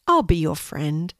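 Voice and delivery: kind, reassuring horse in a natural voice; calm and kindly; gentle. Acted. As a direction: offer friendship gently. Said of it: "said Blue gently".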